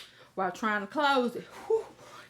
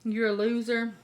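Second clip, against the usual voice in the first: ordinary talk, nothing marked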